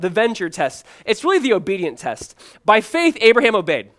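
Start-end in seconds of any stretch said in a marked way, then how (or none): 2.6-3.9 high, loud proclamation; ringing pulpit repeat; emphatic preaching. Acted. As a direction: drive the verse home with a raised voice. Repeats verse as emphatic point.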